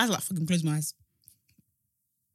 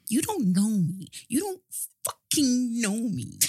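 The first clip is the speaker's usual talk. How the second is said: imitating a diva; slower than usual. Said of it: "No, it's like this".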